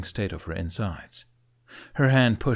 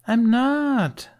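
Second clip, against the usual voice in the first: drawled; 7 dB louder than usual. A narrator's reading. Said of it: "she drawled".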